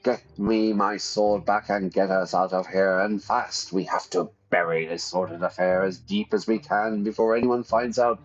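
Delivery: put-on lofty scornful older brother; Stefan voiced.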